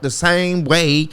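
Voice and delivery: slipping into a Southern drawl; Southern accent. Real, not acted. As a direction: let the words slide Southern. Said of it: "it sounded very Southern".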